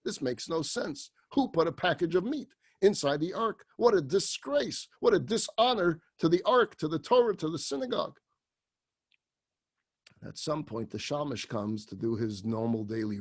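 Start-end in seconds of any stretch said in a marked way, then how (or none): 3.8-8.2 indignant outrage. Acted. Rabbi finds meat in ark.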